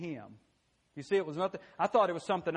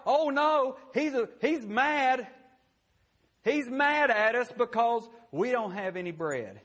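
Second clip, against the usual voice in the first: mock panicked, higher and louder; fretting disciples; 6 semitones higher, 4 dB louder than usual. Preacher mimicking the disciples fearing Jesus is mad. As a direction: whine it like scared followers.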